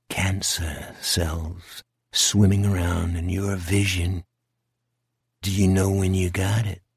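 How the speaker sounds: creepy low taunting, slowing on the worst words; sinister creature. Acted. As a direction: draw it out low and menacing. Creature describes Jack's cancer.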